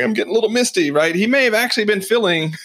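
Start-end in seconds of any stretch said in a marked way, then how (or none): 0.0-0.9 Fonz imitation.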